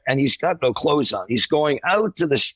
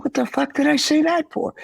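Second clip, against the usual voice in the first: mock dismay. Regretting blurted words.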